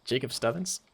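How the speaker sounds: whispered, puzzled question; hushed imitation of the donor; mock whisper. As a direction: breathe it like a secret. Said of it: "he's like".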